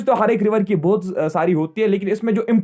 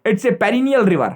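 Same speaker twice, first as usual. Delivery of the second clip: slow dictation; 3 semitones higher, much slower than usual. Shown as a demonstration. Teacher dictating a note.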